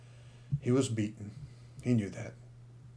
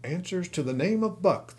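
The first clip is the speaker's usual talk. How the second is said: musing to himself; 7 semitones higher than usual. Acted. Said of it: "the man soliloquized".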